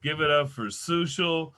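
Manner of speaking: stretched-out MC introduction; comedy club host announcing an act; announcer introduction. Real, not acted. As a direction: draw the surname out for the crowd. Host introduces next comic.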